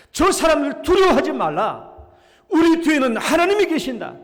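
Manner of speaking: 큰 소리로 격려하며 외치듯; loud encouragement. Retold or imitated. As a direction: shout courage to the frightened people. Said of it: "큰 소리로 격려했어요".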